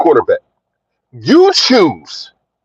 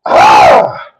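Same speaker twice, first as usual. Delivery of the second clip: pained shout; 10 semitones higher than usual. Real, not acted. Reacting to ACL injury news.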